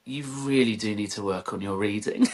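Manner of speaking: child lightly imitating a teacher; mock-correcting, measured telling-off; admonishing teacher. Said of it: "like a teacher who was, like, correcting me".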